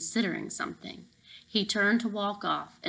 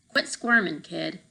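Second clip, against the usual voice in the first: put-on curt command to a squirming kid; barking order. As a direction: snap the order like a guard. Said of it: "the red-headed guard barked".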